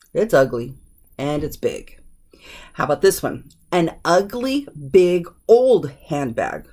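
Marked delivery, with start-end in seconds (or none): 3.7-6.7 put-on slow list building to OLD; stress on OLD. Shown as a demonstration. Teacher showing another order, slow with emphasis on OLD. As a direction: lift ugly, then stretch OLD handbag. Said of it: "The emphasis is that it's old".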